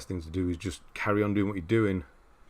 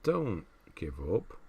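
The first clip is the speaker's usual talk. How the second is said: gentle encouragement; slower than usual. Real, not acted. Encouraging a discouraged streamer.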